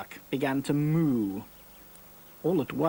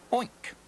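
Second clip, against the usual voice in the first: oinking; 9 semitones higher than usual. A narrator's reading. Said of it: "said the hen".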